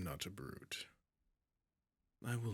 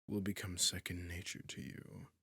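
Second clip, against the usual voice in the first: commanding; 3 dB louder than usual. Acted. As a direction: lay down the law to the captive. Dragon asserting obedience.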